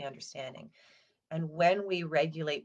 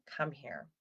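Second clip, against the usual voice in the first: put-on soft, falling "Come here" to a crying child; quiet tender "Come here"; soothing invitation; 2 semitones lower, 5 dB quieter than usual. Shown as a demonstration. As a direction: gently draw the upset child in. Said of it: "my go-to with my kids is saying".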